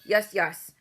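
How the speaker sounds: loud boom; booming reply. A narrator's reading. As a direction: boom it right back. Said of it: "boomed the blood bottler".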